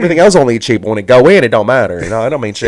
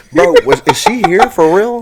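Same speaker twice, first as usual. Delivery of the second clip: panicked; 7 semitones higher than usual. Real, not acted. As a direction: squeak it out in alarm. Panicked check.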